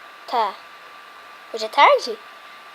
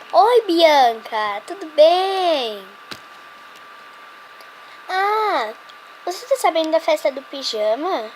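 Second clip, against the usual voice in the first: fake sweet; 2 semitones higher, 5 dB louder, slower than usual. Fake sweet call to rival.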